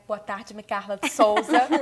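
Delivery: re-enacted presenter's greeting, punched up loud at the end; on-air greeting. Shown as a demonstration. Re-enacting her entrance to greet the host, on-air greeting. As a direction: greet like a TV journalist coming on air. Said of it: "Eu vou fazer que nem quando eu entrei".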